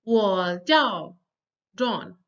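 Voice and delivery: "我叫 John" deliberately, "叫" falling; model reading. Shown as a demonstration. Teacher reads for students to repeat, "我叫 John" word by word. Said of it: "I read a sentence once".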